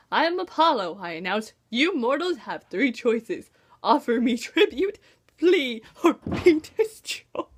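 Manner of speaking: lightly hammed-up divine threat; mock mighty god. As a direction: proclaim like a mighty god, half in jest. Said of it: "I wanted my words to echo".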